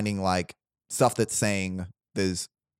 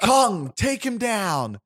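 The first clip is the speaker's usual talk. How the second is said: much higher, louder cartoon villain squeal; high-pitched Koopa voice; 11 semitones higher, 3 dB louder, slower than usual. Koopa calls out to Mario, high-pitched villain yell. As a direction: shriek the word up high like a tiny tyrant. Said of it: "and a high-pitched voice".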